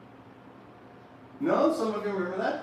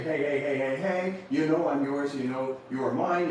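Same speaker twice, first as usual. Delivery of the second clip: voice of the car. Acted. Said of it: "let your car say".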